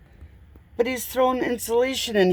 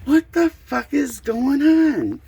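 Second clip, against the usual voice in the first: high, loud, slow exasperated swearing; fed-up homeowner losing patience; frustrated outburst; 7 semitones higher, 4 dB louder, slower than usual. Real, not acted. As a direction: let the frustration burst out, slowly. Frustrated, shelf stuck.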